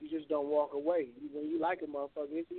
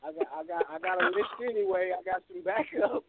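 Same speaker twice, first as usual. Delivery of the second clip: high, loud careless brush-off; dismissive player; 5 semitones higher, 8 dB louder than usual. Retold or imitated. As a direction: shrug someone off like they're replaceable. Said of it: "it's like".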